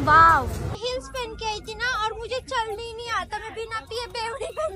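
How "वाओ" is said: excited wow. Real, not acted. Admiring market goods.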